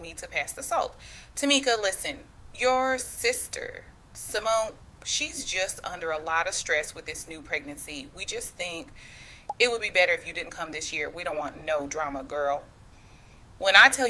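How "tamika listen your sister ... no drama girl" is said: mother's calm, smooth, softly spoken words; quiet and smooth. Retold or imitated. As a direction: deliver the blow gently, as if asking for the salt. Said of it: "she says it all quiet and smooth".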